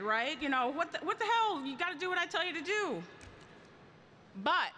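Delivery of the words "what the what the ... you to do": mild mock yell, pitched higher and rushed; inner scream. Mother voicing her inner rant at her stubborn daughter, mock exasperated. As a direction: play the frustrated parent screaming inside, half-joking. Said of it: "I'm screaming in my head".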